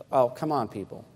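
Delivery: ordinary delivery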